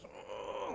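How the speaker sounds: put-on a soft, breathless grunt like a baby straining; imitated baby grunt. Father imitating his straining baby, soft breathless grunt. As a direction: whisper a tiny baby's strain. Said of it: "He goes".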